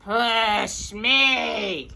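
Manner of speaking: shouted with force on me; yelling again. Acted. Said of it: "Danny yelled again".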